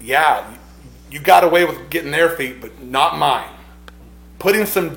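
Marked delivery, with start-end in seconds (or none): 0.0-3.5 a touch louder, cocky jab; mild defiant retort. Retold or imitated. Preacher voicing Peter pushing his Lord away, with mild defiance. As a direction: push back at his Lord with a hint of sass. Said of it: "as if he's saying".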